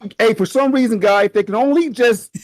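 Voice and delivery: Bill and Ted voice. Retold or imitated. Co-host imitating fans as Bill and Ted, high surfer dude. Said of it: "This is me sound like Bill and Ted".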